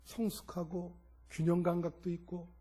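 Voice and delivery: softly reenacted plea to God; subdued, questioning prayer; retold prayer. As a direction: put it to God quietly, as if thinking aloud. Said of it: "어제 준비하면서 그랬어요".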